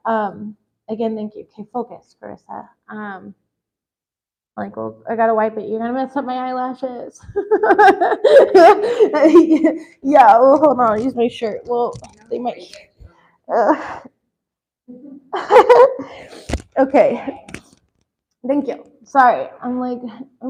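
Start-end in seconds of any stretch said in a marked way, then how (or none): 0.9-3.3 soft, teary self-talk to refocus; hushed, choked-up pep talk to herself; pulling herself together. Real, not acted. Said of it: "I'm, like, crying over everything". 7.2-10.0 high, loud laugh through tears; real laughing fit, high and loud; teary laugh. Real, not acted. Crying, laughing at her makeup. 14.9-16.1 short, very high laugh through tears; real high squeal of a laugh; teary laugh. Real, not acted. Wiping tears with her shirt.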